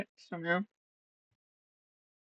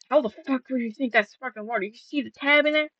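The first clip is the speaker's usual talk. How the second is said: incredulous retort; 6 semitones higher, faster than usual. Retold or imitated. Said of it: "I'm like".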